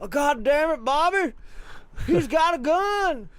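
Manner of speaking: hammed-up cartoon dad scolding Bobby; exasperated cartoon dad. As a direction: scold like a fed-up cartoon father. Hank-style reply to Bobby.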